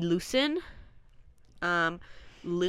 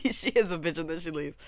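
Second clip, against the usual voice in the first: laughing; 2 semitones lower than usual. Real, not acted. Echoes friend, laughing.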